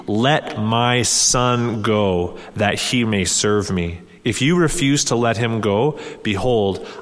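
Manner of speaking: slow, deliberate scripture reading. Acted. Preacher reading God's warning to Pharaoh, slow and solemn. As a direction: let each phrase of the Lord land slowly. Reads Exodus aloud.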